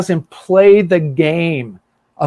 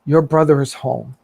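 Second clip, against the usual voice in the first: loving father; 3 semitones lower than usual. Retold or imitated. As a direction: speak tenderly to your angry son. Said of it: "with all the love in his heart".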